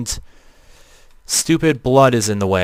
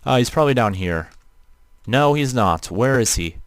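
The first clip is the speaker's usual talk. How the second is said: flat robotic voice filter. Real, not acted. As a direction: talk through a robot voice changer. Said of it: "you're questioning why my voice sounds robotic".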